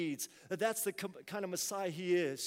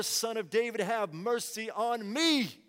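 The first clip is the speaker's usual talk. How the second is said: crying out; 3 dB louder than usual. Retold or imitated. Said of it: "he cried out all the more".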